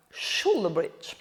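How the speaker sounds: slow, low English term in an Italian accent; drawn-out Italian-accented English. Real, not acted. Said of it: "avec mon accent italien".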